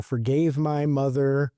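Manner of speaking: high, halting broken English; imitating a Malaysian lady's broken English; mock broken-English quote. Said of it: "broken English".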